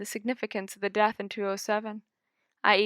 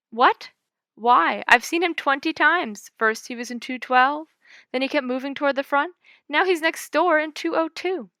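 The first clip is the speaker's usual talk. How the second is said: higher and louder, rushing; agitated disbelief; 6 semitones higher, 6 dB louder than usual. A narrator's reading. Guest protesting to the clerk, higher and agitated. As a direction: protest in rising alarm.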